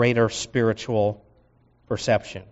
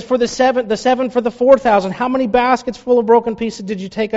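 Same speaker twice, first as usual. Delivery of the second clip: high, insistent questioning Jesus; frustrated Jesus; 9 semitones higher, 4 dB louder, faster than usual. Acted. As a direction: push them to remember. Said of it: "frustration in Jesus' voice".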